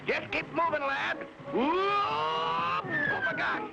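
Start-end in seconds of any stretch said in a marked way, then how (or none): 1.5-3.7 sudden high yelp of alarm; startled yelp. Acted. Falling off the vine above crocodiles, a startled high yelp. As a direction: cry out as he slips.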